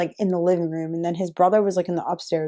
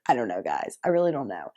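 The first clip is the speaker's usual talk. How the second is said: quiet; 10 semitones lower, 6 dB quieter than usual. Real, not acted. Sheepish low admission.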